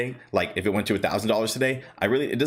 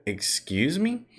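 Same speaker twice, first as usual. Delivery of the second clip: slow, drawn-out "excuse me?" rising high; stunned disbelief; 6 semitones higher, much slower than usual. Retold or imitated. To fiance who says the stock jumped, slow stunned disbelief. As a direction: act floored by the news.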